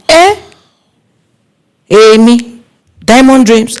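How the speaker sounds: startled, pitch jumping up on the name; shocked disbelief. Retold or imitated. Planner reacting in disbelief to a client's insult, startled. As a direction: caught off guard by an insult. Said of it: "And I was like".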